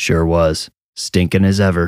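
plain

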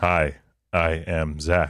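put-on robotic AI voice. Taking a turn at the co-host's joke, introducing himself in a robotic AI voice. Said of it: "Let me do it".

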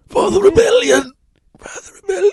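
very high-pitched dying voice. Others guess a movie as the speaker does a dying Rogue One character impression. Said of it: "That's my new impression".

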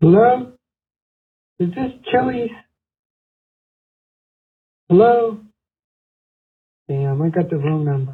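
aged-sounding male voice, about sixty. A caller on the phone finds he has the wrong number, sounding like a man in his sixties. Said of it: "Why he sound like he's in his 60s?".

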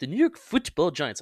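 pretentious, hitting the t in Football. Showing how he habitually says it, in a pretentious, affected delivery. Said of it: "And I say it like, pretentious".

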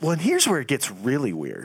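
true-crime podcast narrator voice, swooping intonation. Telling a story in the style of a murder podcast, do the murder podcast impersonation. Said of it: "my best murder podcast impersonation".

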